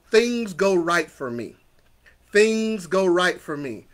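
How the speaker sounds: slow, deliberate affirmation; measured, assured declaration; leading affirmations. Shown as a demonstration. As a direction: say it slowly so they can repeat it. Leads affirmations for repeating.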